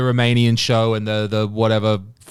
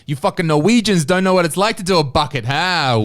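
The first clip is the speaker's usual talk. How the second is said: mock taunt; 8 semitones higher than usual.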